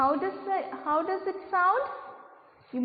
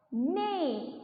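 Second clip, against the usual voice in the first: neigh together. Shown as a demonstration. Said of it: "Can you sound with me?".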